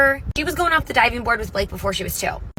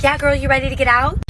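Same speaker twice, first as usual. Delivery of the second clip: a touch louder, higher breezy mom; casual mom reply; 4 semitones higher, 5 dB louder than usual. Retold or imitated. Mom answering her daughter in the pool, breezy and a bit louder. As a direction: toss it off like it's nothing.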